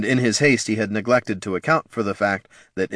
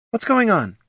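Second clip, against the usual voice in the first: stern mother; 14 semitones higher than usual. A narrator's reading. Mother questioning pups.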